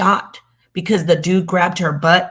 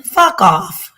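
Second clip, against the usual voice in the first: fuck off outburst; 9 semitones higher, 4 dB louder than usual. Real, not acted. Dismissing mocked critics.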